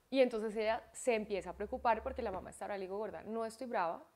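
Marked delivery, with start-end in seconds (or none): 3.0-4.0 softly measured retold parent talk; composed explanatory tone. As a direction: explain it softly and evenly to a child. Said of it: "así, en este tono".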